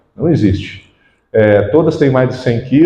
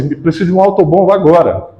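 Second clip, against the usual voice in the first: hurried radio call; 4 semitones higher, faster than usual. Retold or imitated. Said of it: "naquela correria".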